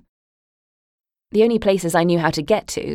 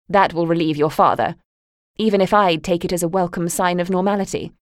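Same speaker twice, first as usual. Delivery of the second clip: cold dismissal; 4 dB louder than usual. Acted. Mother coolly telling her daughter to hurry off. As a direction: brush her off impatiently. Mother's cutting parting jabs.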